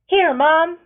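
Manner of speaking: loud high call from hiding. A narrator's reading. A boy calls out to his mother from the shadows, loud. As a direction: shout it out from the hedges. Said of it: "Groan calls from the crouched".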